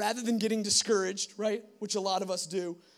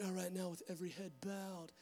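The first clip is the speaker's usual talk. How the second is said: preacher altar call; 3 semitones higher, 4 dB louder than usual. Retold or imitated. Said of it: "she does this whole thing".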